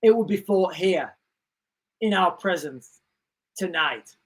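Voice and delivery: movie intro narration. Acted. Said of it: "the beginning thing on the Terminator".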